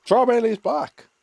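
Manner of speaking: slow, high, stretched welcome; drawn-out greeting. Real, not acted. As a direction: sing out the welcome. Greeting returning viewer.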